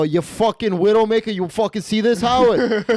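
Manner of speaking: high, loud mock hollering; screaming gambler. Rowdy gambler yelling to Howard at the craps table. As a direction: crow it raucously at the other player. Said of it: "It's just me screaming".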